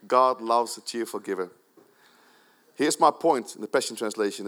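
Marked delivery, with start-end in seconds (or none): 0.1-1.5 laughing. Real, not acted.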